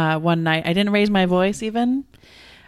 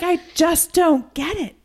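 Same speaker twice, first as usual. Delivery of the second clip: lightly voiced speechless mother-in-law; baffled grandma; 9 semitones higher than usual. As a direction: play the stunned grandmother. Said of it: "she's like".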